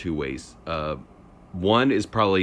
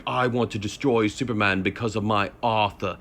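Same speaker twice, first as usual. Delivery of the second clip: mocking bad British accent, lightly done; a hint of a hammed-up British accent, mocking the acting; 3 semitones higher than usual. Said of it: "like, a British accent".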